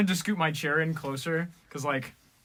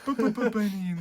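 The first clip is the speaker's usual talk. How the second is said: mock snoring; 5 semitones higher than usual. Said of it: "people snoring like that".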